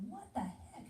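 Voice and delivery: mock startled gasp of disbelief. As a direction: caught off guard by the urge. Reacting to strange urge.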